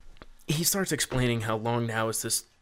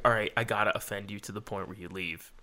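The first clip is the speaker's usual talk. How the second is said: quiet inner thought; 3 semitones lower, 6 dB quieter than usual. Retold or imitated. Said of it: "I'm, like, thinking".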